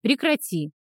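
grumbled reprimand. A narrator's reading. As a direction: tell a friend off grumpily. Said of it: "буркнул Килрас". (недовольно, ворчливо)

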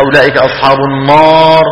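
النار with a dark heavy alif; wrong fat alif in النار; heavy alif wrongly. Shown as a demonstration. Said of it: "مو النار".

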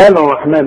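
الرحمن as "al-rahman"; wrong sounded lam. Shown as a demonstration. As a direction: mispronounce الرحمن with the l not merged. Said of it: "لكن دي بتضغم". (الرحمن بإظهار اللام غلط)

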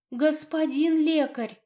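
high, drawn-out desperate call; slow, imploring cry for attention; insistent plea. A narrator's reading. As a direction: call after a healer, refusing to give up. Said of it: "однако, не сдавалась".

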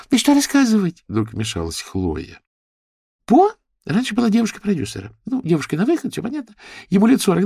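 high, fast gossip; gossipy girlfriend. Acted. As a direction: spill the dirt eagerly. Chloe gossips.

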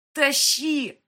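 a full, high, loud yell of one word; desperate shout. Acted. Kristina yells at the ghost to pull the phone, full shout. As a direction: bark it out with everything left.

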